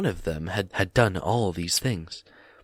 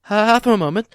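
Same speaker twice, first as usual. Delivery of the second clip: frightened hobbit, higher and louder; shivering; 13 semitones higher, 8 dB louder than usual. A narrator's reading. Hobbit blurts to Gollum in a scared rush. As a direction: Bilbo blurting it out in fear.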